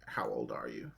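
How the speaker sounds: very low, whispery and soft; creepy hushed question. Acted. Old family friend asking the young demon slayer's age, creepily hushed.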